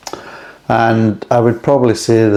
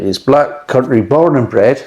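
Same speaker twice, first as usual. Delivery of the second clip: light Black Country accent on born and bred; a hint of Black Country, slipped into unawares; 3 semitones higher than usual. Shown as a demonstration. Beer reviewer slipping into a Black Country accent. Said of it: "why I'm saying in that accent".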